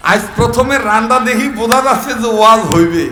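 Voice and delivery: loud, rousing sermon voice; fiery preaching. Acted. Preacher rouses the village congregation, fiery and loud. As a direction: preach to the crowd, building.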